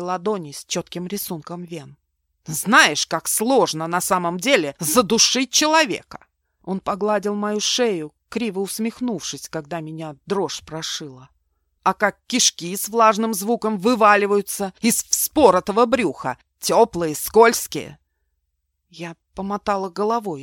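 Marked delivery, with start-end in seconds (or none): 2.5-6.3 angry confession. Acted. Mark confesses strangling people. 11.8-18.0 grim loud relish. Acted. Mark describes gutting, menacing.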